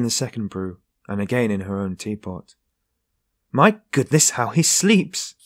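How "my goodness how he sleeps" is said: high, loud, slowly drawn-out exclamation of indignation; indignant cry. A narrator's reading. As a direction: cry it out, scandalized at how long he sleeps. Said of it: "she cried indignantly".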